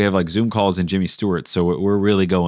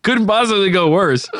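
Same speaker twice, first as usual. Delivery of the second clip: Jimmy Stewart impression; 11 semitones higher, 5 dB louder than usual. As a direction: say it like a polite old film star.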